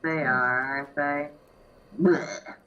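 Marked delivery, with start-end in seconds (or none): 2.0-2.5 mock retching noise; dry heaving. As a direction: fake gag of disgust. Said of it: "I prefer my vomiting, childish noises".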